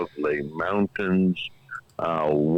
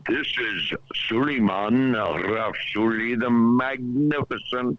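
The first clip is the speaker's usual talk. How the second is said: genie; 5 semitones higher than usual. Pretend. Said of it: "You sound like a, a genie, a djinn".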